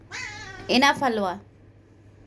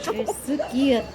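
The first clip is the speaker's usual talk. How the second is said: laughing coo; 8 semitones higher, 4 dB louder than usual. Real, not acted. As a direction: laugh through the praise. Laughing, cooing at cat.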